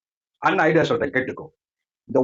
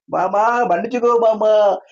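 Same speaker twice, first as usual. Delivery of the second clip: imitated tearful begging; 3 semitones higher than usual. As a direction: plead like a wife wailing for forgiveness. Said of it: "கதறி அழுது".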